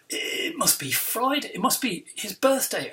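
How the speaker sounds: a touch of flustered amazement; spluttering. Acted. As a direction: splutter it out in mild disbelief. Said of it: "I splutter".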